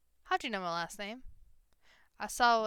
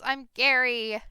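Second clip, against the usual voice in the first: loud goblin shout, higher voice; 3 semitones higher, 9 dB louder, slower than usual. Acted. Goblin shouts his name at the strangers, loud and high. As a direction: bellow your name like a cheerful goblin. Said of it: "the goblin shouts".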